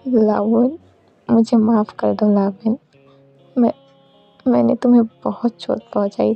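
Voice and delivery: understated pleading for forgiveness; lightly voiced remorseful plea; mild acted apology. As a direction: beg forgiveness with a touch of hurt.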